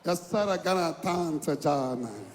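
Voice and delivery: slow, drawn-out mock American accent; imitated American accent. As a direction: mimic the American accent, stretching the words. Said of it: "American accent".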